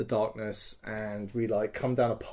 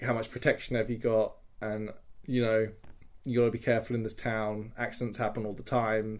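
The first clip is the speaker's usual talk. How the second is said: veiled threat; 3 semitones lower than usual. Retold or imitated. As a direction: imitate a racketeer feigning friendly concern. Acting out a protection shakedown.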